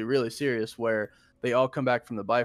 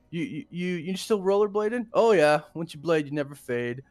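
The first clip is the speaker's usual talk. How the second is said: higher-pitched mock chitchat, stumbling at first; lightly acted, raised-voice banter between exes; awkward small talk with an ex; 5 semitones higher, 3 dB louder, faster than usual. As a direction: act out both sides of an awkward catch-up. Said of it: "so it's really weird".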